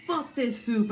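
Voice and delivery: fed-up snap at the soup; angry outburst. Retold or imitated. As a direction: swear at the soup. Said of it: "And I was like".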